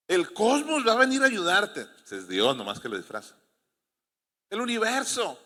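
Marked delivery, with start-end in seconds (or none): 0.1-1.9 higher-pitched, put-on voice of a nonbeliever; teasing, lifted imitation; mock atheist. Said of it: "No sé cómo dicen ellos". 4.5-5.4 higher-pitched, put-on voice of a nonbeliever; teasing, lifted imitation; mock atheist. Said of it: "No sé cómo dicen ellos".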